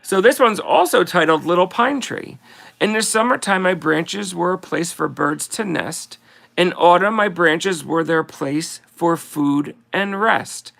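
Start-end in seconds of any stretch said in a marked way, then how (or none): 2.8-10.7 slow, sing-song verse reading; slow Christmas card recital; poem reading. Acted. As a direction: read it like a greeting card poem, unhurried. Reads Christmas poem aloud.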